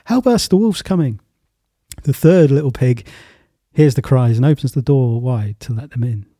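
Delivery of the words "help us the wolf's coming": shouting for help. Acted.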